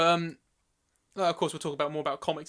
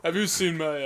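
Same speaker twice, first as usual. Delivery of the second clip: a hint of movie tough guy; hesitant, lightly put-on action-star voice; Sylvester Stallone; slower than usual. Host playing Robin to Batman, light Stallone-like voice. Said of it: "I thought you sounded like Sly".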